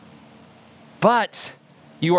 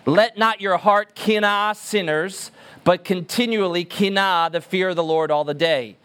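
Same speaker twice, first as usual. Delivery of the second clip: wooden reading. Shown as a demonstration. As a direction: read it woodenly, each word set down. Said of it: "how Proverbs twenty-three is written".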